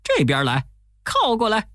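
高声招呼船靠岸; 冲着船远远喊; 连声叫喊. A narrator's reading. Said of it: "一个劲儿地叫". (高声连喊)

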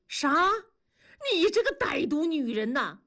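high, indignant outcry; appalled outrage. A narrator's reading. Husband learning his wife phoned the woman's unit, appalled. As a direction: cry out against a wicked betrayal.

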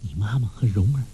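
soft whisper close to the ear; 低声耳语. A narrator's reading. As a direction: breathe the words into his ear. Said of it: "在他耳边低声说". (耳边低声细语)

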